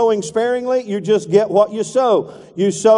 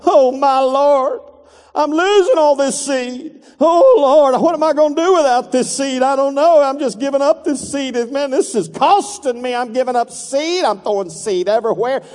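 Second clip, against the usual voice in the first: lightly hammed-up worried farmer, higher; fretful farmer; 4 semitones higher than usual. Preacher mocking a farmer who frets over seed, mock worry. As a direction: whine in mock panic over lost seed.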